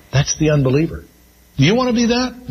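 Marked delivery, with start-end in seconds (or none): 1.6-2.5 rhetorical challenge. Acted.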